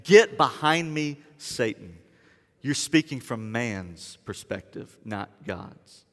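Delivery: a hint of stern Jesus; stern rebuke. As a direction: rebuke him gravely, then fade. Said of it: "Jesus looking at him and saying".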